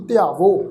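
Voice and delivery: ਧਿਆਵੋ ending in a clean, un-nasal o; pure o ending. Shown as a demonstration. Teacher models second-person verb, ਧਿਆਵੋ with plain o. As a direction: close ਧਿਆਵੋ on a round o. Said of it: "ਉਹ ਹੋੜੇ ਦੀ ਮਾਤਰਾ ਲੱਗ ਕੇ ਉਚਾਰਨ ਹੋਵੇਗੀ".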